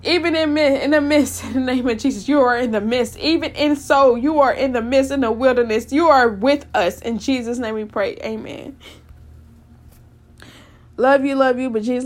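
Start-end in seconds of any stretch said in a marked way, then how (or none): 0.0-8.8 earnest prayer rising into preaching; closing prayer. Real, not acted. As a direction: pray over the listeners, building in fervour. Prayer resumes to amen.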